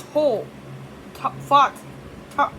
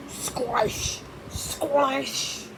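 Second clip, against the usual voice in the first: whispered squelch; 2 semitones higher, 4 dB quieter than usual. Pretend. Muddy squelch sound effect.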